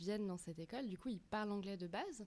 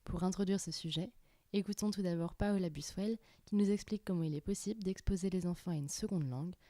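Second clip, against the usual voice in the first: clear, even presenter voice reading a script; a composed radio-style opening read; podcast intro read; 7 dB louder than usual. Acted. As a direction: introduce the episode like a radio host. Host reads podcast intro over music.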